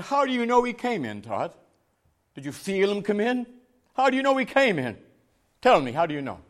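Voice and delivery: high-pitched challenging questions, retold; challenge. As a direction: press him for an answer, testing his certainty. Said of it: "There's a challenge for the man".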